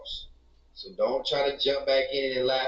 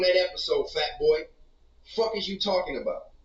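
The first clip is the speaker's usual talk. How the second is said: heated comeback; 4 semitones higher than usual. Real, not acted. Hitting back at the co-host mocking his painting, heated. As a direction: fire it back at him, offended. Snapping back at co-host's teasing.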